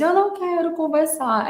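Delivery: child's tearful whine, loosely imitated; mock crying. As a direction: raise the pitch in a half-hearted wail. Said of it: "ela chorando, ela disse".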